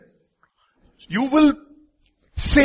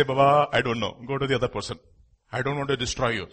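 humble; 5 semitones lower, 5 dB quieter, faster than usual. Retold or imitated. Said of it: "Humbly I will say".

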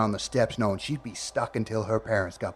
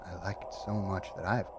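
chilling quiet confession; 3 semitones lower, 10 dB quieter, faster than usual. Acted.

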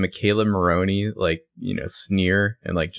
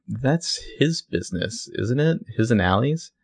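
higher-pitched, drawn-out mock annoyance; a little annoyed; 5 semitones higher, slower than usual. Spencer answering Toby about Allie's business, a little annoyed. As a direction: imitate a mildly miffed girlfriend, pitched up. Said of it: "she's a little annoyed".

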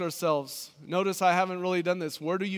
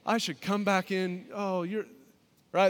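put-on wholesome 1950s kid; 3 semitones higher than usual. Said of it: "that's an Andy Griffith".

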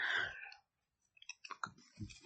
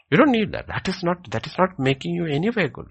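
rising sermon emphasis; 13 semitones higher, 6 dB louder than usual. Real, not acted. Preacher rises to full force.

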